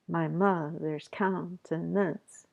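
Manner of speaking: slow, "mother's" and "countenance" stressed on their beats; iambic scansion. Shown as a demonstration. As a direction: tap out the iambs slowly. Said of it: "like that".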